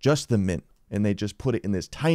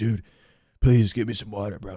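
put-on panicked, freaking-out voice. Retelling a guy begging the dude at the computer for water: imitating someone freaking out. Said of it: "He's freaking out".

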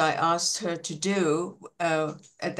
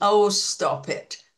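mock fed-up, irritable tone, raised; 3 semitones higher, 5 dB louder than usual. Retelling a classroom incident, speaker recalls their reply: retelling in an irritable voice. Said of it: "I sort of just used my irritable voice".

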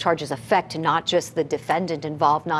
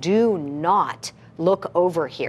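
mock-disdainful, acted disdain, slower delivery. Retelling what a protective father said to a man looking over, mock-disdainful. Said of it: "just with such disdain".

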